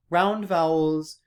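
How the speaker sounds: "Round vowels" with wide, round, open vowels and lots of mouth space; extra round vowels. Shown as a demonstration. Teacher showing students Singlish round vowels, slow and open. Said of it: "it sounds more like this".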